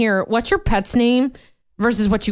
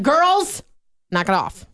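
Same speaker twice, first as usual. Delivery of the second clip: scolding; 5 semitones higher than usual. Retold or imitated. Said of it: "And I'm like".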